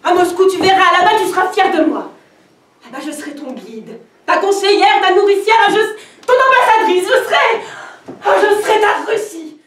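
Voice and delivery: montée exaltée vers le cri; exaltation. Acted. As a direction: promets Moscou avec ferveur. Exaltation, promesse de Moscou. (exaltation qui monte)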